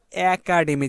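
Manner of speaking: একাডেমি with an open, drawn-out "æ" at the start; pronunciation demo. Shown as a demonstration. Teacher showing students how it is pronounced, careful demo of একাডেমি with open "æ". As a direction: stretch the first sound of একাডেমি, like "æ-kademi". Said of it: "উচ্চারণ কিভাবে করতেছি".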